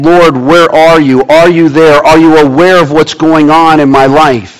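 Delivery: mildly insistent run of questions; crying out to God. Acted. Congregant crying out to God, mildly insistent plea. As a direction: press each question on into the next. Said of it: "You're crying out to God saying".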